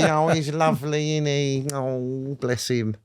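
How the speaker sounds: put-on high, doting old-wife voice; doting gossip. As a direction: fuss over him like a smitten auntie. Mimicking wives swooning over Bruce.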